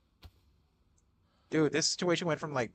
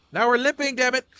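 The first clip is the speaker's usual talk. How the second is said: higher, louder panicked yell; 11 semitones higher, 10 dB louder, faster than usual. Real, not acted. Player notices injury, yelling higher and louder.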